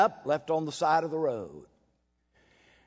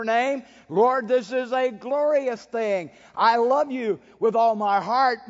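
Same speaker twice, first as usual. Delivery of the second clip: martyr's prayer; 3 semitones higher than usual. Acted.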